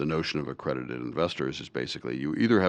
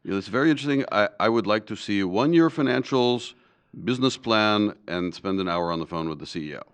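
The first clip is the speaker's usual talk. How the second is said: bad German accent. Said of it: "Trying to do my bad German accent".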